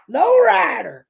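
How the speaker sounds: lightly hammed-up hype shout; hype call. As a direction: shout the name like a fan. Hyping his favourite wrestler.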